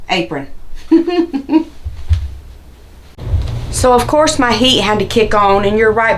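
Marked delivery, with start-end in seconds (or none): 0.5-2.4 breathy little laugh. Real, not acted. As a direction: laugh at yourself. Laugh after saying beautiful apron.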